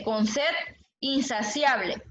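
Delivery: "con sed insaciable" read slowly, each word apart; slow verse reading. Shown as a demonstration. Teacher reading a verse aloud to the class, slowly. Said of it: "el verso dice".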